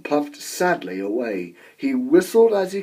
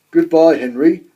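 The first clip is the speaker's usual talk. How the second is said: louder call across the shed; 8 dB louder than usual. A narrator's reading. Gordon leaving the shed, calling goodbye. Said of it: "called Gordon".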